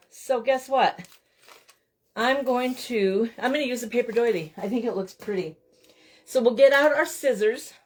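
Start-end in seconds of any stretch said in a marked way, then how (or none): 6.2-7.7 breathless after running back; out of breath. Real, not acted. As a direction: speak while catching your breath. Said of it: "I'm all out of breath now".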